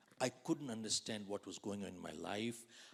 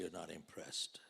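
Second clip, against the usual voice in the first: unvoiced teasing whisper; whispered aside; 8 semitones lower, 9 dB quieter than usual. Real, not acted. Teasing an unimpressed audience, whispering. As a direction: whisper it to the crowd as a tease.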